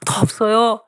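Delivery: high, insistent imitated wail; tearful pleading. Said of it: "이러는 거예요, 제가".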